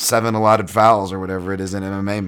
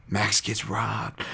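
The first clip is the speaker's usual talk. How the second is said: mock outrage; 2 semitones higher, much slower than usual. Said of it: "No, it's just kidding".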